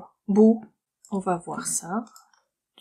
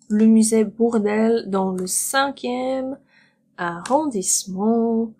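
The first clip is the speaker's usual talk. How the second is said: clear repetition. Shown as a demonstration. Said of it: "repeats clearly for learners".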